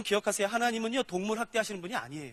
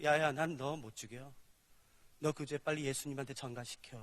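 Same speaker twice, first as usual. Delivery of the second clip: God speaking; 8 semitones lower, 10 dB quieter than usual. Acted. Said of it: "그래서 이렇게 말씀하세요".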